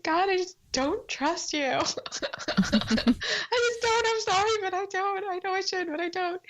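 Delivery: mild crying while confessing; retold tearful confession. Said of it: "like, in tears".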